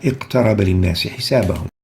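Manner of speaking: "اقترب" recited quickly with a light qaf bounce; "اقترب" with slight echo after qaf; low qalqala. Shown as a demonstration. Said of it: "first example of the low qalqala".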